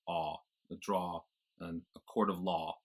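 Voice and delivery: "draw" and "law" with open AH, lips relaxed; American AH vowel. Shown as a demonstration. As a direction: drop the jaw to "drah", "lah". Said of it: "dropping the jaw a bit to go".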